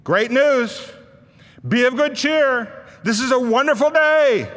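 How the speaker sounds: Jesus telling the lame man great news; joyful announcement. Acted. Jesus to the man on the stretcher, bright and joyful. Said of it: "Jesus looks down and says".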